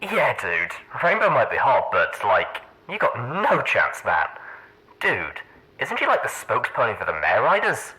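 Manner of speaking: easygoing dude chatting with a friend; laid-back guy. Acted. Old recording of chatting bucks.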